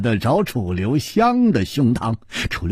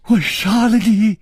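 raised, high furious yell; wild roar; 7 semitones higher, 3 dB louder than usual. A narrator's reading. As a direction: roar it at him. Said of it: "忽然狂吼起来".

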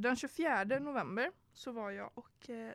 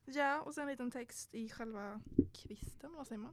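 quiet aside; 9 dB quieter than usual. Real, not acted. Quiet aside while recalling.

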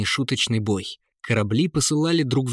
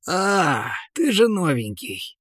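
smiling; 7 semitones higher, slower than usual. A narrator's reading. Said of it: "улыбаясь".

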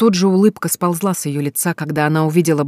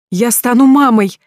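slow joyful cry, higher and louder; joyful exclamation; 7 semitones higher, 8 dB louder, slower than usual. A narrator's reading. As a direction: burst out with joy. News becomes joy.

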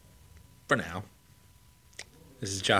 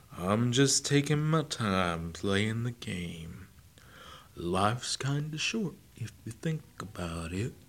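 slow tortoise voice. Acted. Joe the tortoise, unhurried.

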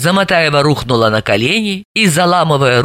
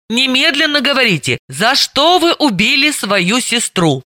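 ordered; 8 semitones higher than usual. Acted. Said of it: "приказала Далила".

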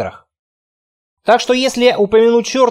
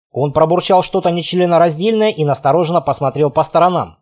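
plain reading voice

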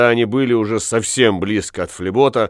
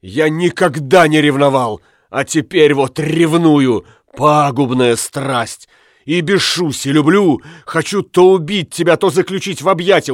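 torn jealousy; 3 semitones higher than usual. Acted. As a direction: swing between rage and love. Jealous husband torn, confessing.

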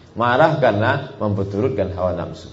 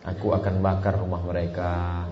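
smiling soft take; 2 semitones lower, 5 dB quieter than usual. Shown as a demonstration. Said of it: "Tak mungkin".

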